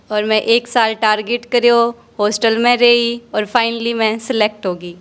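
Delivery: put-on casual Haryanvi accent, lightly done; Haryanvi dialect. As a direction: speak in rustic Haryanvi accent. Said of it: "आपकी हरियाणवी भाषा में आपका परिचय दीजिए".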